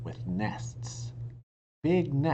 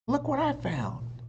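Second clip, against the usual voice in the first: excited call; 13 semitones higher than usual. A narrator's reading. Jack calling Annie.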